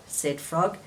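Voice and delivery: lively read-aloud voice with clear character turns; story reading for children. A narrator's reading. Teacher reading Frog and Toad to children, lively storytelling. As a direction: tell it gently to little listeners.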